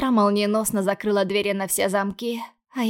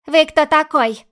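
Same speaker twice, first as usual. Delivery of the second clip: loud, higher, scared-defiant shout; growled challenge; 6 semitones higher, 9 dB louder, slower than usual. Acted. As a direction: yell at the intruder to cover fear. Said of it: "рыкнула Зара".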